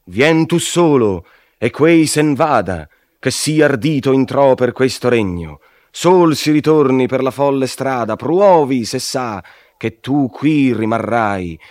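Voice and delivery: high, loud scornful order; disdainful command. A narrator's reading. Demons at the gate dismissing Virgil's companion, scornful. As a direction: contempt held barely in check. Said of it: "chiusero un poco il gran disdegno".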